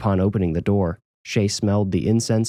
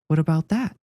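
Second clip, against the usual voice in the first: inquisitive mother; 8 semitones higher than usual. Acted. Mother voiced by narrator.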